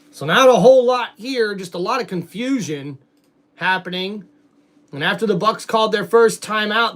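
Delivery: steady live sports commentary, building tension; play-by-play call. Acted. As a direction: call the drive like a TV announcer. Streamer doing play-by-play.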